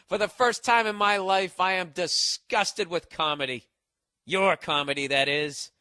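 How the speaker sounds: hardboiled noir dame delivery, line by line; film noir speech. Retold or imitated. Comic reading fan email like a film noir dame. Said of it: "she starts speaking like in film noir".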